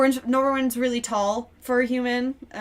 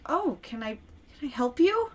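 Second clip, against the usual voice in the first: tired mother voice; 3 semitones higher than usual. Acted. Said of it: "It was like".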